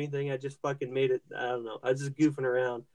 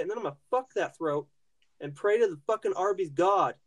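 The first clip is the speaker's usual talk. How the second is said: hammed-up rage, higher pitched; mock furious rant; 6 semitones higher than usual. Friend on a podcast mock-raging at the Arby's cashier, high pitched. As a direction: rant like a wronged customer plotting revenge.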